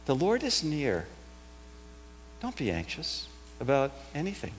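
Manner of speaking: soft, gentle comfort after a pause; reassuring. Shown as a demonstration. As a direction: ease the fear out of them quietly. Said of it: "It's actually a reassuring voice".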